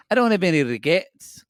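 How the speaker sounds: put-on quick Scottish accent on the quote; a touch of Scottish brogue. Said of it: "I don't know why I said that in a Scottish accent".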